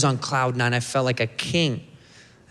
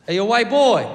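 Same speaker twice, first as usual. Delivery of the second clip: much higher schoolboy holler; kid calling out; 8 semitones higher, 4 dB louder than usual. Acted. Kid turns back to white boy, calling out in accent. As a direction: call it across the hall in a put-on kid's voice. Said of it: "Turns around and goes".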